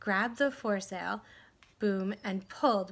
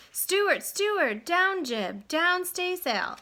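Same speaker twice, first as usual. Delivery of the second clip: loud, high shouted orders; yelling directions; 8 semitones higher, 3 dB louder, slower than usual. Acted. Owner yelling orders to Stuart across the pond, loud. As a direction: bark the sailing orders.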